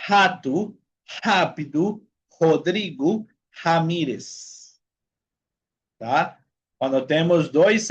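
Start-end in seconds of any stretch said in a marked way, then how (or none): 0.1-4.8 spaced list, "Rato" to "Ramírez", every opening R breathed like jota; initial R as J. Shown as a demonstration. Teacher recapping the rule, word by word with J sounds. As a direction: recite "Rato, rápido, Rodrigo Ramírez" with each first R as Spanish J. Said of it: "la R va a tener un sonido de J".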